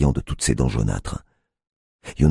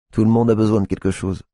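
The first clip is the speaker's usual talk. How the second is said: Tiffany's voice; 8 semitones higher than usual. A narrator's reading.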